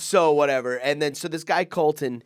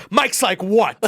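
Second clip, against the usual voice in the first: laughing mock indignation; 6 semitones higher, 7 dB louder, slower than usual. He turns the corner, laughing.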